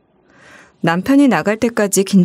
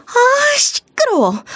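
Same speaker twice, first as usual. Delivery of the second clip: annoyed snap; much slower than usual. Acted. Sister-in-law snapping on recording.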